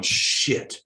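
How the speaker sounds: voiceless muttered curse under the breath. Retold or imitated. Stuck on a plane, muttering to himself, voiceless curse. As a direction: breathe the swear out, barely voiced. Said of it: "And I'm going".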